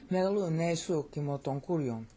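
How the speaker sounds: put-on "Megalu ne su kimoton kurion" flowing in old Greek pronunciation; classical Greek cadence. Shown as a demonstration. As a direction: recite Megalu ne su kimoton kurion with a steady beat. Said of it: "See how that pronunciation works".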